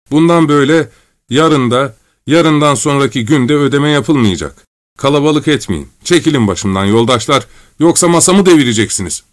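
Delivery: harried cashier turning people away; irritated refusal. Acted. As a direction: fend off a pressing crowd. Cashier fends off the crowd.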